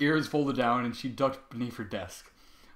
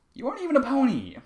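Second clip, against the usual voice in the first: put-on high, louder shouted child line; yelling take; 12 semitones higher, 6 dB louder than usual. Sweetball challenges Trevor in a yelled first take. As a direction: yell it out too hard. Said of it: "I can't do fucking Sweetball with all this yelling".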